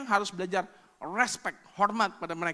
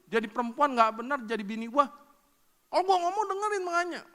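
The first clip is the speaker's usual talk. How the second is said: angry husband; 4 semitones higher, 4 dB louder than usual. Retold or imitated. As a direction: scold the wife like a hot-tempered husband. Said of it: "Saya marahin anak saya". (suami memarahi istri dengan nada marah)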